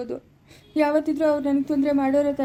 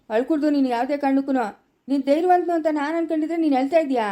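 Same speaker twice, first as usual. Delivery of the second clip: chiding; 2 semitones higher, 4 dB louder than usual. Acted. Elder scolds man for crying.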